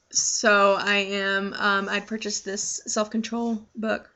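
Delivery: talking with food in mouth; words round a mouthful of food; mouth full. Real, not acted. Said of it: "Sorry, I have something in my mouth".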